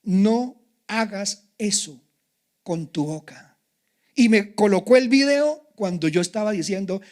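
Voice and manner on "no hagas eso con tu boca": slow divine voice. Retold or imitated. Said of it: "el Espíritu del Señor me habla".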